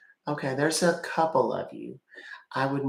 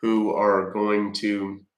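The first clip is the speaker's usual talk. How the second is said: deep pitch shifted. Acted. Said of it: "Can you please stop using voice changer?".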